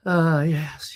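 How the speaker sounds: hoarse, fading voice; strained, losing voice. Real, not acted. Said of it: "I'm losing my voice".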